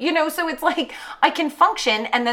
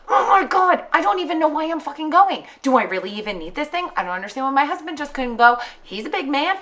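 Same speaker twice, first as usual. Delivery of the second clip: retold angry rant; 3 semitones higher than usual. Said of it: "I get so fucking angry".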